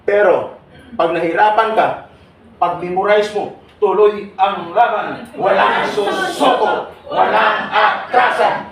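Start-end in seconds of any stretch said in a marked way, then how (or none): 3.8-8.7 slow, loud battle cry, each word hammered; rallying shout. Shown as a demonstration. Speaker firing up exam takers before the test, slow loud rally shout. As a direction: chant it like a rally cry to fire up the crowd. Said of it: "Dapat ipakita mo yung lakas mo".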